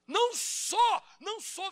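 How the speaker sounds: high, loud cry of no; shouted denial. Acted. Peter shouting his denial when recognised, high and loud. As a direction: yell the denial. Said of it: "ele gritou".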